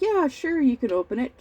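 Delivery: easygoing mock-dad consent, pitch dropping as it goes; dad indulging his little girl; obliging dad. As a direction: imitate dad agreeing, starting high. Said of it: "He'd be like".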